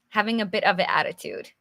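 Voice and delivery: same phrase rattled off fast; quick repeat. Shown as a demonstration. Teacher repeating the definition to the viewers, fast. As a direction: rush through it the second time.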